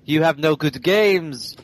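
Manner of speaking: slow, lightly put-on French accent; mock French accent. Podcast host mocking a French YouTuber, slow mock French accent. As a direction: drag it out in a jokey French accent. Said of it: "He has a French accent".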